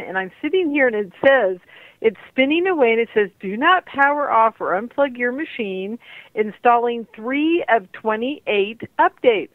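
thin phone-line sound; talking down a landline; over a landline phone. Real, not acted. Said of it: "speaking to you today on my landline".

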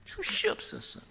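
high whispered plea; mock high-pitched begging; whiny begging. Shown as a demonstration. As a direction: beg like a child, pitched high. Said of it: "이게 아니에요".

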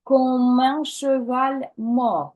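slow, the "e" in "cheval" spoken out; clear e in cheval. Shown as a demonstration. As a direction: pronounce every sound of "cheval". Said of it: "Cheval обов'язково проговорити ось це «е»".

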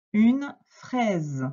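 clearly presented new word, separated from its article; dictation announcement. Shown as a demonstration. Teacher giving a pupil the next word, clear dictation.

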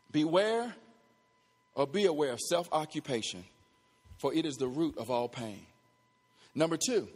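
low, soft, with pauses between phrases; hushed, measured warning; dictating a point. Real, not acted. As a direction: repeat it quietly for note-takers. Repeats point for note-takers.

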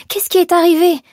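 high, loud, frantic asking; shrieked question. A narrator's reading. Seamstress asking about the fire, shrieking. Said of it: "s'égosilla Sophia".

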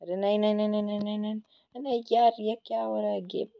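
high-pitched string of frantic refusals; panicked protest. Real, not acted. Player losing the fight as the server lags, panicked protest. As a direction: protest in a high, distressed whine. Dying in game, server lagging.

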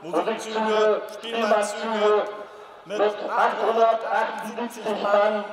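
lauter, langsamer Meldungston; barked drill commands. Real, not acted. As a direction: zackig und gedehnt melden. Formelle Meldung an den König. (militärische Meldung, laut und gedehnt)

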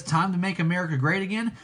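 quick plain read of the slogan with great; quoting Trump. Retold or imitated. Contrasting with Trump, a quick mild slogan read. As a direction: rattle off the familiar Trump slogan lightly. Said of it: "How Trump says".

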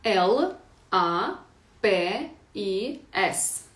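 «П І С» по одній літері, дуже повільно; диктуй літери з паузами; повільна диктовка. Shown as a demonstration. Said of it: "Ну, давайте ось таке". (вчителька повільно диктує літери учням)

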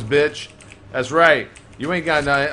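ordinary talk, nothing marked

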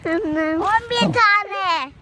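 slow drowsy sleep mumble; drawn out, half asleep; sleep talking. Real, not acted. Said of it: "anne anne diye sayıklıyor".

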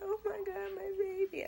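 high, loud overjoyed cry; new mom overcome with joy; emotional joy. Retold or imitated. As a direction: gush over the newborn. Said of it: "I was like".

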